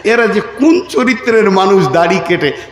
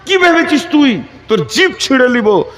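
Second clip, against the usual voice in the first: high, mock-angry threat; retold imam's angry outburst; imitating angry imam; 7 semitones higher than usual. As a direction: play the imam scolding someone. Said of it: "ইমাম সাহেব রেগে গেছে".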